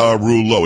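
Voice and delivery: Pagarullo said in four syllables, no "lia"; four-syllable surname. Shown as a demonstration. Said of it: "It's only four syllables when Pagliarulo is five".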